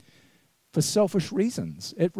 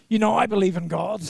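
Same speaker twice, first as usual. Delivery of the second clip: chuckling quote; 5 semitones higher, faster than usual. Retold or imitated. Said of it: "The guy says".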